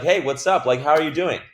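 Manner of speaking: snappy, friendly hello; opening a sales call with a quick upbeat hello; quick upbeat greeting. Shown as a demonstration. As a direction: come in hot but not too hot. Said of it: "just come in quick".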